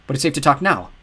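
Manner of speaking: keen, leaning-in question; eager. Acted. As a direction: ask it hungry for answers. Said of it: "Chip asked eagerly".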